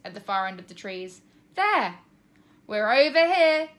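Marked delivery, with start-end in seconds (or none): 1.6-2.0 excited shout. A narrator's reading. Tina spots the dog. 2.7-3.7 loud, slow shout into a phone. A narrator's reading. Trev shouting into the phone for his dog. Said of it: "I shouted into the phone".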